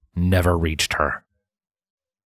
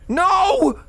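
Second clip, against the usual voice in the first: high mare voice. Acted. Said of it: "Linda's voice echoed".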